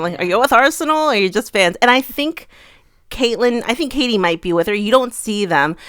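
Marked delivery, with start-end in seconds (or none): 0.2-1.8 quick mock country American accent; lightly put-on country accent, rattled off. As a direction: imitate a chatty American fan-spotter with country twang. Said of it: "almost like a country accent".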